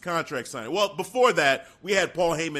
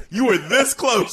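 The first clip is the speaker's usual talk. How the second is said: teasing shout; 4 semitones higher, 5 dB louder than usual. Real, not acted. Teasing co-host about near-miss.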